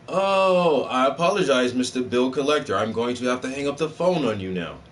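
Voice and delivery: a touch of polished phone manner, lightly voiced; professional phone voice. Taking a call in his very professional voice, lightly done. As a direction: answer like a polite business line. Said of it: "in my very professional voice".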